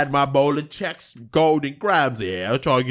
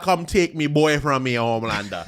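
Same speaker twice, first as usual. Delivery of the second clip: mock Jamaican patois. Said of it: "Jamaican's patois is very similar".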